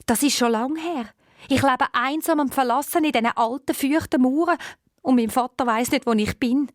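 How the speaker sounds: a lonely owl princess complaining of her fate. Acted.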